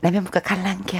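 softly spoken Daegu dialect; 부드러운 대구 사투리. Shown as a demonstration. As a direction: ease into a quiet Daegu lilt. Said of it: "조금 대구 쪽은 부드러워요". (나긋한 대구 사투리로)

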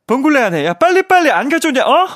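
hammed-up, rising demand; Lee Sun-kyun. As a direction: bark impatient orders in a mimicked actor's voice. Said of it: "이선균 선배님을 이렇게 성대모사한".

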